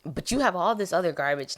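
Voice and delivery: hammed-up hurt complaint; heartbroken outrage. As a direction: act personally betrayed, playing it up. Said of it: "it just shattered my heart".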